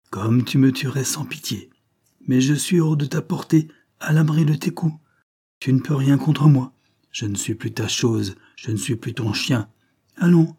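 mock him, safe behind the bars; cruel bravado. Mistress taunting her raging lover, sarcastic. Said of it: "Cette cruelle bravade, ces sanglants sarcasmes".

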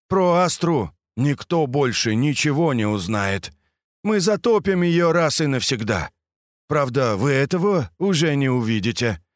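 lightly voiced gloating villain; smug villain. Villain Strass monologue.

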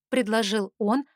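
usual speaking voice

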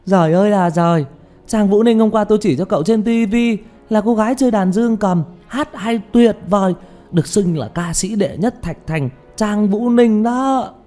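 very high, loud fan gushing; wildly excited. Acted. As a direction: cry out in starstruck rapture. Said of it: "kích động như vậy". (hét lên phấn khích, giọng vút cao)

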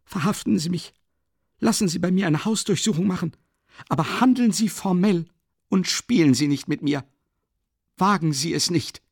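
high, loud furious demand; rising fury, pitched high; even greater rage. Acted. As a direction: hurl the challenge in anger. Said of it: "geriet er in noch größere Wut".

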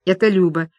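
usual speaking voice

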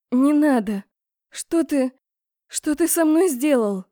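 pushing him away in alarm; panicked plea. A narrator's reading. Heroine panics, pulling away. (испуганно, выше и громче)

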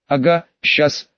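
slow, scoffing snort of refusal; snorting dismissively. Acted. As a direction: brush it off with a snort. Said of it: "фыркнул я".

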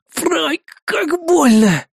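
high, very slow cry of pain; agonized moan. Acted. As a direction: drag the pain out. Soldier moans in pain.

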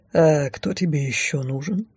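sly smile. Acted. Necromancer teases his girlfriend, lightly voiced sly smile. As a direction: tease her, grinning. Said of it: "Хитро улыбнулся некромант".

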